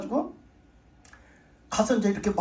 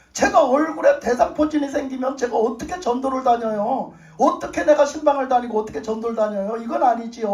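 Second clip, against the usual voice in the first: earnest raised pleading to God; pleading prayer; 3 semitones higher than usual. Retold or imitated. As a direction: beg the Father urgently.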